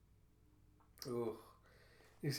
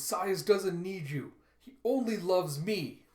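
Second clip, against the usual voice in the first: higher, drawn-out taunting quote; slow and emphatic, pitched up; retold taunt; 5 semitones higher, 6 dB louder, slower than usual. A fighter tells a rival he is unwanted, taunting slowly.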